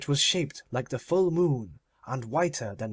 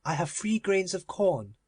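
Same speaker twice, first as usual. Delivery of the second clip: higher, proud miser voice; Avarice's voice; 6 semitones higher than usual. Acted. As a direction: raise the pitch, possessive and cold. Avarice answers Death.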